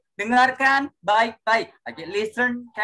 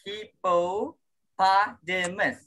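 slow model word; much slower than usual. Shown as a demonstration. Teacher shows pupils how to say it, slowly. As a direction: stretch Hippopotamus out syllable by syllable, slowly. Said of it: "Biar Mister kasih".

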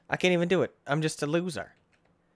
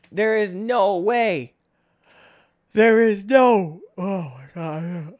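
disbelief; 4 semitones higher, 5 dB louder, slower than usual. Real, not acted. Near miss disbelief.

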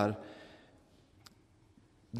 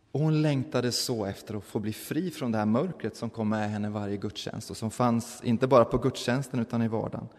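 ordinary talk

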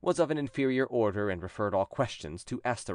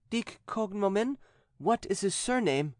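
higher, slow solemn questioning; exorcist priest; 11 semitones higher than usual. A narrator's reading. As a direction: press the demon for a name. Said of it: "she said in a weak voice".

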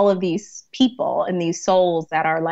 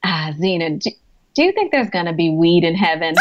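patient's earnest question; 3 semitones lower than usual. Retold or imitated. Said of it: "he's like".

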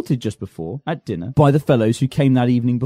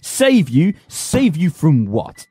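scornful mockery; much slower than usual. Mocking Liza's hope.

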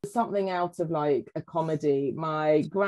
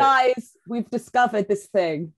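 mock excited discovery; 3 dB louder than usual. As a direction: announce it like a smug breakthrough. Mocking proud modern discoverers to ancestors.

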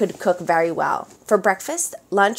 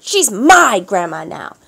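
gruff orders; 5 semitones higher, 8 dB louder than usual. A narrator's reading. Boss pirate orders Melissa.

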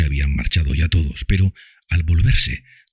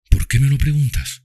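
father's voice; 11 semitones higher than usual. A narrator's reading. Father asks.

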